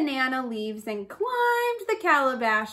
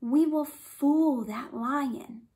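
sly rabbit; slower than usual. A narrator's reading. Rabbit plots quietly.

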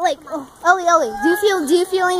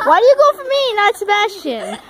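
loud protest; 7 semitones higher, 4 dB louder than usual. Real, not acted. Kids pelting him with balls.

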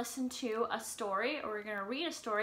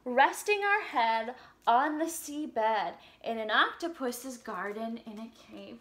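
put-on reading to children; 4 dB louder than usual. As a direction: read the lyrics gently to little kids. Reads song lyrics to children.

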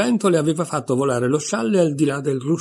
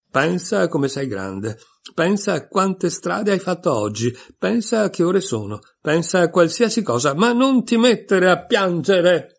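anxious pleading that rises higher and louder to a near shout; the queen's fretful coaxing swells into a cry; frantic pleading, building; 6 semitones higher, 4 dB louder than usual. A narrator's reading. Queen frantically hushing crying Alice.

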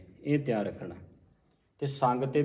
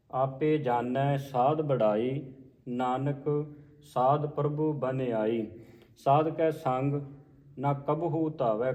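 slow, measured line-by-line reading; scripture recitation; slower than usual. Shown as a demonstration. Teacher modelling a scripture reading for learners, slow measured recitation. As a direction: recite each phrase slowly with pauses between.

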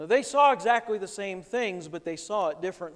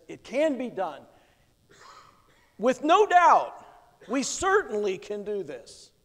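brimming with optimism; 4 dB louder than usual. Retold or imitated. Caleb answers the doubting spies with bold optimism. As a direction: declare it with bold certainty. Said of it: "Brimming with optimism".

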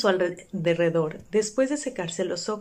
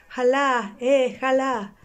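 excited cheer; 6 semitones higher, 5 dB louder, much slower than usual. A narrator's reading. Scrooge cheering Friday on.

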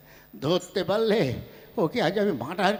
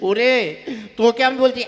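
loud, higher threat; angry shout; 4 semitones higher, 6 dB louder than usual. Acted. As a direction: yell it in his face. Furious old man. (রাগী হুমকির চিৎকার)

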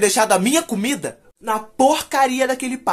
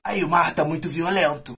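lightly voiced smoker, a bit lower; smoker uncle; 4 semitones lower, 3 dB quieter than usual. Uncle warning nephew about rough sea, smoker's voice. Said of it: "Ele falava assim que ele era fumante".

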